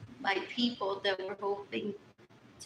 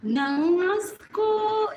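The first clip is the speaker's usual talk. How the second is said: disgusted; 7 semitones higher, 6 dB louder, slower than usual. Real, not acted. Disgusted outburst about people.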